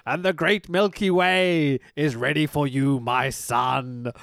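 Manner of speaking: slow, grand cult-leader intoning; lightly voiced wrestling villain, slowed and portentous; mock Taskmaster promo. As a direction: ham up a mystical villain promo. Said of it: "And he goes".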